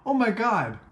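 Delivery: high, laughing gasp of realisation; amazed laugh. Real, not acted. Vlogger stunned by a discovery mid-research recap, laughing in amazement. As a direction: blurt it through delighted laughter.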